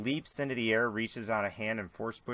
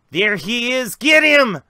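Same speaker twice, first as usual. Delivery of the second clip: high, loud shout to attack; shouting thugs; 13 semitones higher, 15 dB louder, slower than usual. Acted. Gang member spotting him yells loudly. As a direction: yell to rally the gang at him. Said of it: "you hear".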